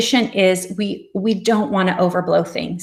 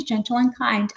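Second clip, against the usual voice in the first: softer repeat of "gentle and kind"; softer gentle reminder; 4 semitones higher, 3 dB quieter than usual. Shown as a demonstration. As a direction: let the phrase settle, quieter. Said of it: "you just say".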